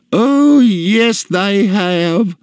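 high, loud haughty contradiction; domineering matron; imperious customer. A narrator's reading. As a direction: overrule the girl in a high, domineering voice. Customer contradicts the frightened girl.

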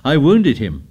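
put-on high, excited boyish boasting. A narrator's reading. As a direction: burst out proudly, pitch leaping. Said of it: "Ralph talked on excitedly".

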